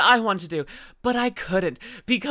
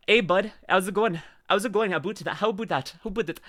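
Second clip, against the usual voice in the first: practising a classic Canadian accent; 4 dB quieter than usual. Shown as a demonstration. Streamer practising on chat, tentative Canadian accent. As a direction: try out Canadian vowels, "about" nearly "aboot". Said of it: "I don't know my classic Canadian accent".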